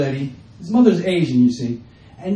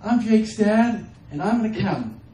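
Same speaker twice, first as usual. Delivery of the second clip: mock dull introduction; 3 semitones higher than usual. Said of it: "I'm like".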